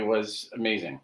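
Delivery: tinny bad mic audio; tin can sound. Real, not acted. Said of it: "sounds like I'm in a tin can".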